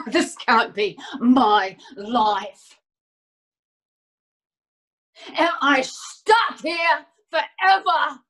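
emphatic, broken-up despairing delivery; distraught disbelief. Acted. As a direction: despair word by word at being stuck. Acted despair at being trapped.

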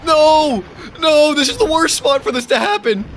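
high, loud cries of dismay; frustrated yelling. Real, not acted. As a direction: yell out in real protest. Game mishap, protesting.

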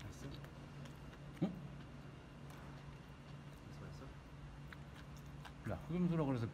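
chewing while talking; speaking between bites; mouth full of food. Real, not acted. Seen 0: big bite at -4; lips pursed, cheeks working through the words.

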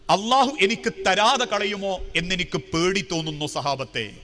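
retold sorrow, sinking low; understated tearful confession. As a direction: let the plea sink into restrained grief. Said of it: "പൊട്ടിക്കരഞ്ഞുകൊണ്ട് സഹാബത്തിനോട് പറയാ".

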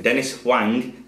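slowed, clear repeat of the name. Real, not acted. Quizmaster repeating a name slowly for the teams. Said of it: "I'll say it again".

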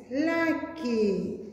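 put-on lively storybook reading for young pupils; bright classroom story time; reading to children. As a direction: read it like a teacher showing a picture book. Teacher reads picture book aloud.

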